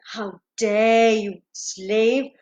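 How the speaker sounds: slow, menacing royal indignation; furious king. Acted. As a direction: draw out the threat like an outraged king. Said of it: "he was furious. He was livid".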